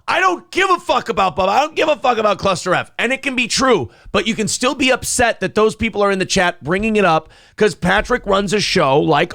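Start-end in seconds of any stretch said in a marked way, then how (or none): 0.0-2.9 high-pitched mock yell, little added volume. Host imitating a yelling ranter to defend him, mock yelling. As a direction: act out yelling a dismissive rant. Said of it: "You can yell".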